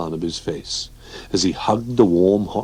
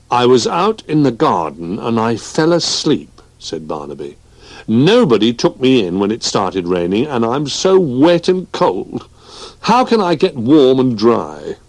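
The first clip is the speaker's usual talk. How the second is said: lightly raised little bear voice; a hint of a sad cold child; plaintive little bear, mildly; small bear voice; 4 semitones higher, 3 dB louder than usual. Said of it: "Barnaby voiced as child bear".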